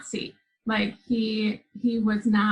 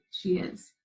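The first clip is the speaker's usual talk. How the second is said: small, soft answer, almost whispered; hushed; 3 semitones lower, 6 dB quieter than usual. Retold or imitated. Child confirms to mother the woman remains, hushed. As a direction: confide it under the breath.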